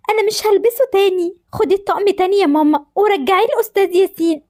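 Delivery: put-on a hurt girl who won't wear it again; hurt daughter. Daughter tells mother to return the uniform, upset.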